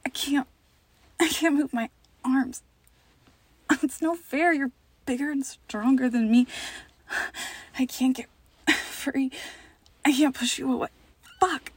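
acting trapped and frightened; pretend struggle. Pretends to struggle while pinned.

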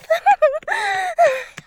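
a very high giggle. Acted. Teasing her partner in roleplay, very high giggle.

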